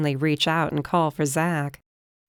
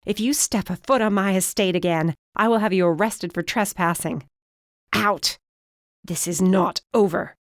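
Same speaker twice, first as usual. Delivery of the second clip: a mild threatening yell, only slightly raised; 2 semitones higher than usual. Acted. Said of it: "she yelled".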